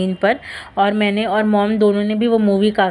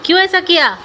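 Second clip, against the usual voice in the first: incredulous question; 10 semitones higher than usual. Real, not acted. Questioning grandpa about tea.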